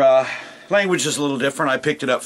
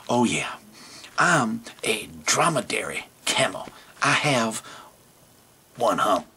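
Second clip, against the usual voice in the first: camel voice. Acted. Camel explains camel types.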